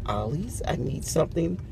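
playful demand to the store; mock plea. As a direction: beg the store, with a squeaky big at the end. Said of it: "I said".

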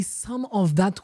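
"some of that" slowed and set apart; stress on "some of that". Shown as a demonstration. Quoting Musa's humble request, stress on "some of that". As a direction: dwell on "some of that". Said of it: "emphasis on the word".

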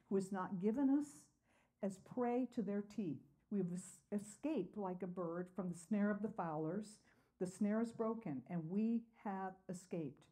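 measured reading of the psalm to the congregation; scripture reading. Acted. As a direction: read it out steady and earnest. Reads the psalm aloud.

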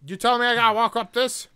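loud disbelief, voice up high; can't believe the climb ahead; incredulous. Real, not acted. Streamer reacting in disbelief.

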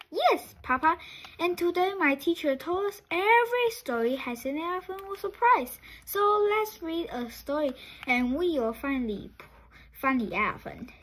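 eager, fast, high little chicken voice; excited child. Acted. Chick begging Papa to read, bubbling over with excitement. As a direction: rush it out like a thrilled kid.

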